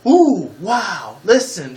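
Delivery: high, loud swooping voice; imitated game-character exclamations. Gamer mimicking cutscene noises, high exaggerated exclamations. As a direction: mimic chirpy game voice clips. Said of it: "They only made noises like".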